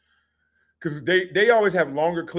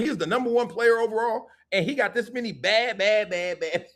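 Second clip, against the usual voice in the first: high, disbelieving list of flaws; shocked disbelief; 6 semitones higher than usual. Retold or imitated. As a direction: sound stunned at the bad grades.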